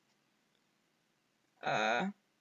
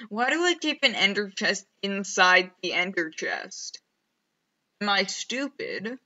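loud exasperated self-questioning; louder, fed up with your own mistake; annoyed at himself; 6 dB louder than usual. Real, not acted.

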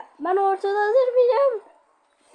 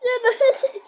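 battle yell; 6 semitones higher, 5 dB louder, slower than usual. Real, not acted. Game chaos, shouting with laughter.

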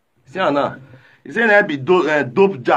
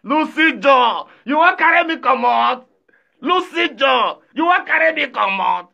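excited shout; 4 semitones higher than usual. Real, not acted. Streamer hyped by a fan's big gift, excited shout. Excited call to fan Lucy.

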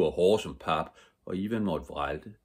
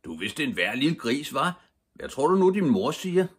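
high-pitched bully teasing, growing louder; taunting shout; 8 semitones higher, 6 dB louder than usual. A narrator's reading. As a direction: tease him, climbing to a loud high question. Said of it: "råbte de". (højt, hånligt drilleri)

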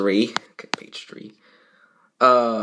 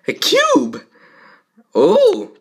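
surprised character voice; much slower than usual. Acted. Character voice in fanfic reading.

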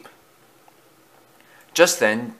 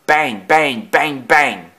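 punched, evenly spaced bangs; banging noise; 3 semitones higher, 3 dB louder, much slower than usual. A narrator's reading. Doors rattle on their hinges, punched bangs. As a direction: hit each bang like a blow.

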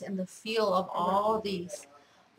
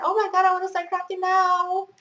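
thrilled burst; 9 semitones higher, 6 dB louder than usual. Real, not acted. Thrilled by gift trim.

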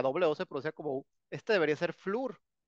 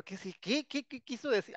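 mock confusion; 7 semitones higher, 3 dB quieter than usual. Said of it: "confused reading manual".

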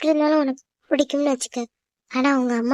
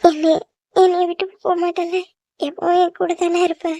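slightly raised, needy plea; tearful pleading; 3 semitones higher, 3 dB louder than usual. Acted. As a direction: plead for reassurance after crying. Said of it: "எதுக்கு இப்படி அழுகுற". (அழுகை கலந்த கெஞ்சும் குரல்)

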